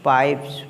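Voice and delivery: plural s kept voiceless after p; "pipes" ending in s. Shown as a demonstration. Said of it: "एस का pronunciation सा". ("pipes" के अंत में स की ध्वनि)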